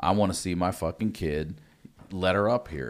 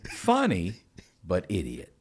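choppy broken-English verdicts; foreign man impression; 3 semitones higher, slower than usual. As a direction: judge each one in a put-on voice. Imitating a man judging comedians.

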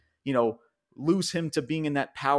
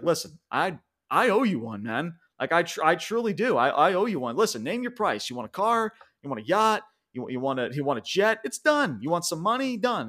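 higher, mock-generous boss pitching offers; imitating Roman Reigns; 4 semitones higher than usual. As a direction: play the smug chief buying loyalty. Roman's offer voiced in recap.

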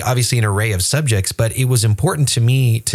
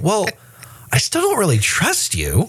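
higher, dry distrust; skeptical passenger; 10 semitones higher than usual. Retold or imitated. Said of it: "And then you go".

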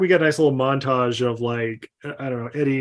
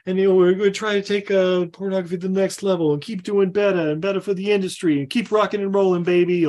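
hyped acceptance speech; 6 semitones higher, faster than usual. Retold or imitated. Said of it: "he's all like".

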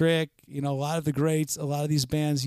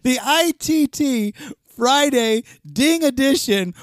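announcer voice; 9 semitones higher, 5 dB louder, slower than usual. Pretend. Mock title announcement.

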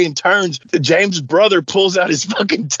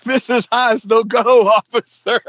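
higher-pitched imitated protest to a cop; mock pleading protest; 7 semitones higher than usual. Rhino with arms up answers the officer, comic protest.

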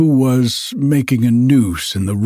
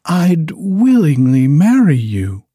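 higher and louder, gushing; eager young lady; 4 semitones higher, 4 dB louder than usual. Acted. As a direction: offer herself eagerly. Miss Midas, high and louder.

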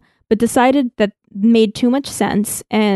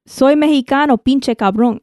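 put-on Mexican accent; 4 semitones higher than usual. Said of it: "try the, a Mexican accent?".

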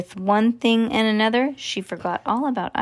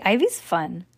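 plain reading voice

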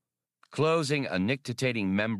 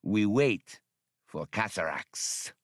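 serene; slower than usual. A narrator's reading. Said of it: "Shazin answered serenely".

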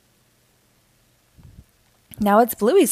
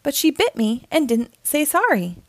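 huffy; 6 semitones higher than usual. Acted. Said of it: "huffs Bluey".

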